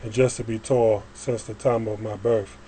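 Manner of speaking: measured spoken-word reading, phrase by phrase; poem recitation. Acted. Poet reads a praise poem to listeners, reciting. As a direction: recite it in steady rhymed lines.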